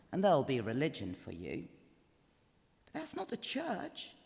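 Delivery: lightly voiced old woman, chattering on; a hint of a nattering godmother at a wedding; old friend chatting up the best man, gossipy; chatty old gossip. Narrator voices chatty Missus Teach.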